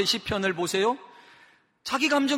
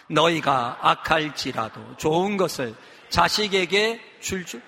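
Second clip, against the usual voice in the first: unison scripture reading; 5 semitones lower, slower than usual. Real, not acted. Leads congregation in reading aloud together.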